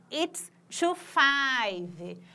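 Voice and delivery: very slow, drawn-out model phrase; very slow demo. Shown as a demonstration. Teacher modeling American time very slowly. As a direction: stretch every word for the class. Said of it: "duas e cinco no inglês americano".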